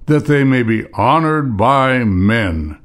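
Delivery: measured reading with pauses between phrases; scripture reading. Acted. Preacher reads Sermon on the Mount to congregation, measured scripture reading. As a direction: read the verses out deliberately, phrase by phrase.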